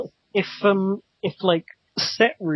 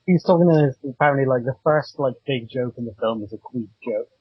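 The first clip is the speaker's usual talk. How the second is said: muffled voice through a cheap cable mic. Real, not acted. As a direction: sounds muffled, like through a wall. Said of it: "It, it, it sounds like you're really muffled".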